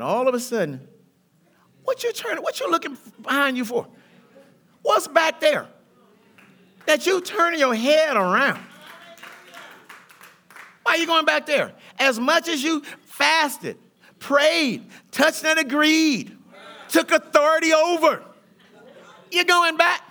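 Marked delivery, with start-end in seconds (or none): 1.8-3.9 mock surprise. Preacher mocking backward glance. 4.8-11.7 challenging. Acted. Preacher challenging congregation, rising. 12.0-20.0 rising, louder preacher build to a peak; preaching build. Acted. Preacher building at the congregation, louder and higher.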